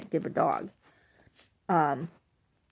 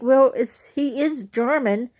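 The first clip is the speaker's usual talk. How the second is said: mom's excuse; 5 semitones higher, 5 dB louder, slower than usual. Retold or imitated. Mom justifying horseradish.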